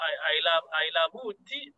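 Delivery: imitating halting English in a heavy accent. Teacher mimics a candidate being examined, heavy accent. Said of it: "people who have a heavy accent".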